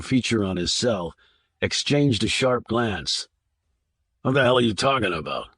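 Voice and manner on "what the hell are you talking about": snapped. Acted. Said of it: "snapped Wingo".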